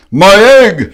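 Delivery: high, loud excited cry; shout. Acted. Horton as his egg hatches, loud excited shout. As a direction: call it out overjoyed. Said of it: "shouted Horton".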